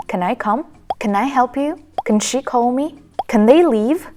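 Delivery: "Can" shrunk to a vowelless "kn"; reduced "can". Shown as a demonstration. Teacher gives example questions, reduced "Can". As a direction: start each question with a weak "Can", k into n. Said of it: "exchange it with".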